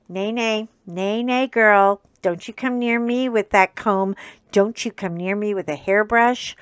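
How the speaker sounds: loud, firm telling-off of the dog; firm scolding. Acted. Owner loudly scolding her dog Fiona about the comb. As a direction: warn her off the comb, raising the voice.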